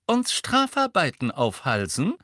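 high, loud challenge; I'd-like-to-see-that voice; daring her. A narrator's reading. Fred cutting into Hermine's threat, daring her. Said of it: "mit einer „Das möchte ich mal sehen“ Stimme".

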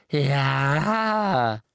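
a defiant croaked yes; croaking elf. A narrator's reading. Creature admitting to Harry he took it.

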